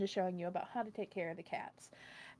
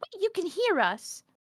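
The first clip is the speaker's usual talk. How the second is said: very high, a bit louder cat voice; 11 semitones higher, 7 dB louder than usual. Voicing a cat who steps in to stop another cat: voicing the cat Princess. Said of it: "she kind of looks and she's like".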